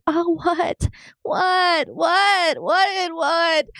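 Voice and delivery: high, repeated cries of "What?"; shocked and bewildered; retold cry of disbelief; stunned disbelief. Reacting to being attacked.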